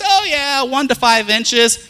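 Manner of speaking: high, loud, slow hyped forecast; mocking the weatherman, high and loud. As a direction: ham up the alarmed forecaster.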